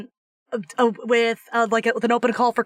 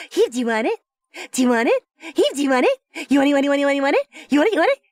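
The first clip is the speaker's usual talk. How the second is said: teasing pet talk; 3 semitones higher, much faster than usual. Real, not acted. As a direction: tease the pet, building up. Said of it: "I'm teasing you with it".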